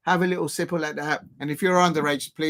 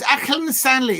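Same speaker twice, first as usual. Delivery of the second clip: higher-pitched amateur Scouse; attempted Scouse accent; 4 semitones higher, 4 dB louder than usual. Shown as a demonstration. Streamer checks whether it's Scouse, higher put-on accent. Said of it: "is that a Scouser's accent?".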